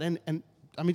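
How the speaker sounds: normal talking voice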